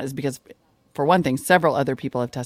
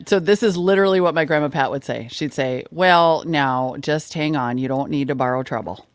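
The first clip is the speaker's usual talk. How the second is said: put-on North Dakota accent. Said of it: "do that North Dakota accent for me".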